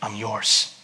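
a hushed, humble prayer. Shown as a demonstration. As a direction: pray it quietly from the heart. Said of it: "you gotta pray and say".

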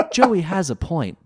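high, loud and slow; Duke agreeing. A narrator's reading. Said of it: "Duke Devlin acknowledged".

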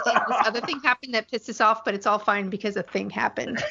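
teasing through real laughter; laughing recap. Real, not acted. Teasing coded recap while laughing.

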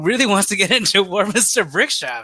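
high-pitched, laughing disbelief; mock amazement. Co-host imagining a celebrity rental, mock amazed. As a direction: act impressed, amused by the idea.

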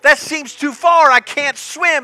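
high, loud, frantic mock panic; panicked Moses. Moses terrified at the water's edge, high and frantic. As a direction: squeal it out like you're sure you'll drown.

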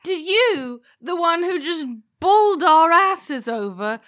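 incredulous. Acted. Incredulous in-character reply.

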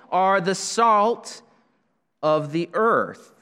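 "salt" drawn out, each word slow and weighted; stressed slowly. Acted. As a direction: lean on "salt", let "earth" fall. Stressing the verse's key phrase.

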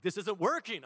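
exasperated complaint, acted lightly; frustrated. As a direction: act out being fed up. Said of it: "I'm getting so frustrated".

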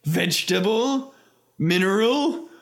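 rising, slowing villain list; mock German interrogator. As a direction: interrogate in a hammy German accent. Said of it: "he says".

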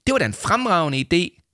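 high-pitched, delighted mum; enthusiastic mother. A narrator's reading. Mother praises the idea of asking Paul, enthusiastically. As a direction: voice an approving mother, pitched well up.

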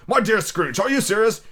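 high, incredulous questioning; amazed gentleman. Acted. Gentleman to Scrooge about his gift, amazed. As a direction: ask in lofty-pitched disbelief.

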